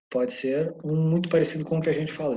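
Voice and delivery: usual speaking voice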